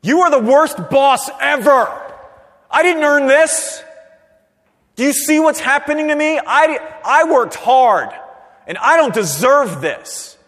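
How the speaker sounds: high, loud, slow outraged rant at the boss; angry complaint. Retold or imitated. Worker crying out to the boss, loud angry rant. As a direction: rail at the boss like you've been wronged. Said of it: "you're like".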